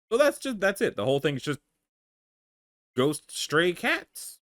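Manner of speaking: incredulous. Real, not acted. Amused disbelief at ghost cats.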